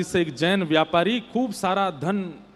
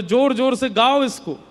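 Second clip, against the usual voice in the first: raised, forceful voice with hard emphasis; urgent loud instruction; 4 semitones higher, 4 dB louder than usual. Retold or imitated. Woman tells jailed merchant to sing loudly, urgent and emphatic. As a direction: urge them on at high volume. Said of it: "इतनी तीव्र स्वर में गाओ".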